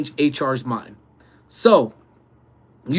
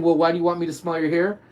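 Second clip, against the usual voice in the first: quick imagined question; faster than usual. Pretend. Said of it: "I know you're wondering".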